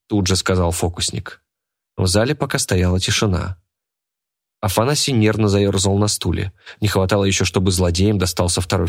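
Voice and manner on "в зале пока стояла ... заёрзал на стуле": usual speaking voice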